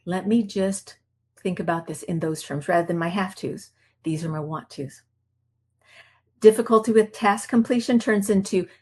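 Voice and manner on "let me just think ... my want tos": soft realization. Retold or imitated. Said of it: "And I'm like".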